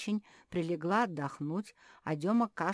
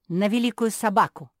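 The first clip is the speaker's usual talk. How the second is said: loud high squealing shout; shrieked retort; 5 semitones higher, 15 dB louder than usual. Acted. Beatrice shrieking at Max's question, very loud. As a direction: squeal the answer out. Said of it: "взвизгнула Беатриса".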